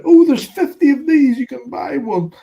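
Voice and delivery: high, breezy gossip tone; chirpy quoted voice. Retold or imitated. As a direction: toss it off like a rumour. Retold casual rumour voice.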